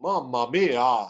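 put-on slow, drawn-out Italian accent; mock Italian accent. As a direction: playfully stretch it out in an Italian accent. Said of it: "I won't do my Italian accent".

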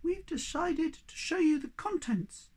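high little creature, slow and solemn; solemn announcement. Acted. Bob revealing a secret to Moomin Troll, solemn. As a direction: announce it with great ceremony. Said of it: "Bob announced solemnly".

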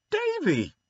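horrified sister gasping her brother's name; shocked cry. A narrator's reading. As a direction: cry his name as if he'll be struck dead. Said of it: "expected that Davy would be struck".

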